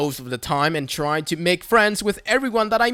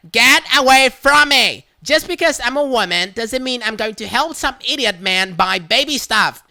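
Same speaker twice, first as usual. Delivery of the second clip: higher and louder indignant outburst; hysterical Karen; 5 semitones higher, 5 dB louder than usual. Retold or imitated. Karen shrieking at the shopper, indignant and loud. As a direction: shriek it like he's attacking you.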